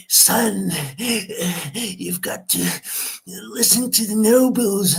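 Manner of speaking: put-on high, slow, strained old dad; a wounded father pleading with his son; dying father voice. Bruce's dying dad urging him, high and slow. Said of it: "and he's".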